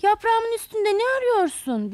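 startled water plant calling out. A narrator's reading. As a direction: call out from the leaf. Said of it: "diye seslenmiş".

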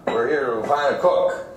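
slow, rolling Texas drawl demo; Texas accent. Shown as a demonstration. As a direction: roll the words like a Texan. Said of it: "yuvarlayarak konuşuyorlar".

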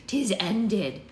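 put-on hushed old crone; old witch whisper. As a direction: breathe it like a dying seer. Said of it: "she whispered".

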